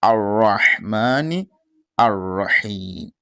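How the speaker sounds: slow, careful Ar-Rahmani Ar-Rahim; correct pronunciation. Shown as a demonstration. Teacher giving the correct reading, slowly. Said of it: "Here is what?".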